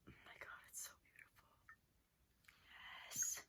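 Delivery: hushed breathless whisper; awed whisper. Real, not acted. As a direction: whisper it in awe.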